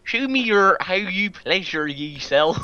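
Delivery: high, loud hammy seduction; seductive voice. Pretend. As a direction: ham up a sultry lover. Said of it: "in the most seductive voice".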